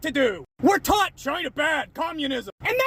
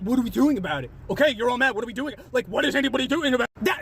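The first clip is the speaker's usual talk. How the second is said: mocking commenter; 6 semitones lower, much faster than usual. Reading a commenter in character.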